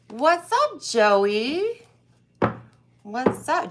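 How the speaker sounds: bright upbeat hello to a viewer; excited greeting. Real, not acted. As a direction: greet them with a lift.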